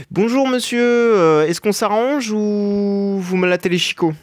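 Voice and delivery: high, slow, overly polite threat; mock-polite greeting. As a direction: sweet-talk the boss with a veiled threat. Mock-polite greeting to the boss again.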